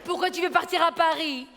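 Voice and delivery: mother scolding her daughter; worried Algerian mum. Retold or imitated. Mère algérienne inquiète. (mère algérienne affolée)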